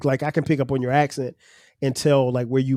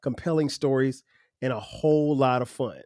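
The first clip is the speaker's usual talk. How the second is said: a touch of polished announcer read; podcast intro read; 4 dB quieter than usual. Acted. Host welcoming listeners to his show, smooth promo read. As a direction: sell the show to new listeners.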